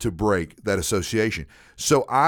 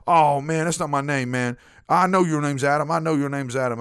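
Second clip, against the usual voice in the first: higher, whiny protest; dopey coworker voice; 4 semitones higher than usual. Retold or imitated. A hint of the coworker whining he knows the name. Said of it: "voice for Robert sounded s".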